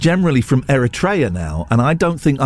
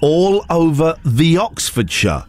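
slow, lightly voiced pirate reading a script; a hint of a pirate, slow and hammy; slower than usual. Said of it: "not doing it in a pirate".

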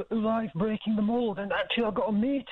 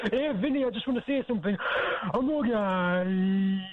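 nervous breakdown; 3 semitones lower than usual. Acted. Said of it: "sound of a guy having a nervous breakdown".

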